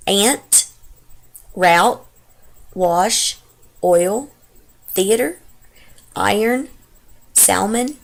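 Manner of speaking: reading words in her own Texas accent; Texas accent word list. Shown as a demonstration. Vlogger reading the dialect tag list in her Texas accent. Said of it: "get right to doing this dialect tag".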